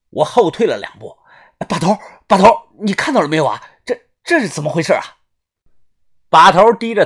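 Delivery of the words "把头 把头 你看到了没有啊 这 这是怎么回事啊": 急促地叫人，话有点结巴; 慌忙追问究竟. Acted. 慌张地向把头求问. (惊慌地快速发问)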